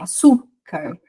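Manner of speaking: "açúcar" with ÇÚ stretched, then a separate car; penultimate syllable stressed. Shown as a demonstration. Teacher showing paroxytone words, ÇÚ of "açúcar" stressed. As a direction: lean on ÇÚ in "açúcar". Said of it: "penúltima".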